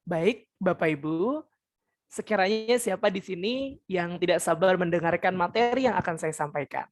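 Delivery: put-on calm, measured address to older listeners. Shown as a demonstration. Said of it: "semakin rendah suaranya". (suara rendah dan santun untuk orang tua)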